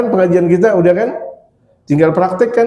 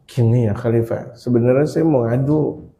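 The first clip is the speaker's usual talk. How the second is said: timid confession; 4 semitones lower, 5 dB quieter than usual. Acted. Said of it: "langsung takut".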